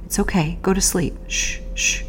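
hushed shh, gently soothing; calming a captor to sleep, soft hush; soft shushing. Retold or imitated. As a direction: soothe him like rocking a baby to sleep. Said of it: "quietly trying to comfort him".

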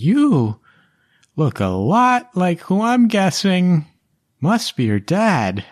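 very high, squeaky little halfling voice; halfling Amelia. Acted. GM voicing the halfling urging the party inside, high and squeaky. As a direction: squeak it out in a tiny urgent voice.

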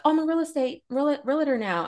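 high mocking influencer voice; mocking valley girl.

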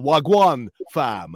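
put-on slow London roadman accent greeting. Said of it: "spitting bars".

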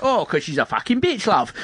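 high, mock-cheery butting in; put-on flippant high voice; crass streamer. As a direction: blurt it over the drama, pitched right up. Crass streamer answer over sad cutscene.

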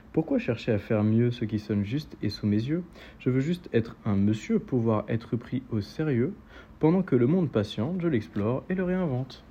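measured verse recitation, lifting at the end; rhythmic poetry reading; poem reading. Acted. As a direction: recite steadily, then open up on the last lines. Reads a poem aloud.

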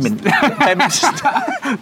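breaking up mid-word, high and loud; laughing. Real, not acted. Guest fumbling the town name he can't pronounce, real laughter. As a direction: drag the name out through helpless laughter.

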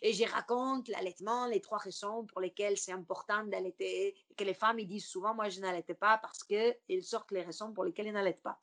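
French with a Latin American Spanish accent; Spanish South American accent. Shown as a demonstration. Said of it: "avec un accent espagnol comme ça".

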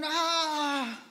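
a preacher's light take on a startled demon; hint of a fearful demon; demon crying out. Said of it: "y dijeron".

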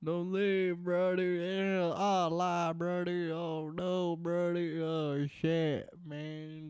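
mock Southern lament; Southern accent. Begging the departing co-host to stay, mock Southern accent. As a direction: playfully plead in a put-on Southern accent. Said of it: "the stupid Southern bullshit".

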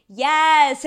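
high, loud cheer; mock celebration. Reacting to Trump firing someone, mock celebration.

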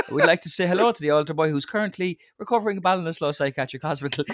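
lightly voiced priest going on; priest's eulogy. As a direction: priest continuing a silly eulogy. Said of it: "it's always that".

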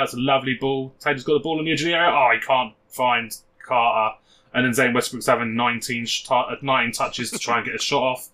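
lightly voiced match commentary; radio commentary. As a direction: call the goal like local radio. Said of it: "Be, be Steve Watkins".

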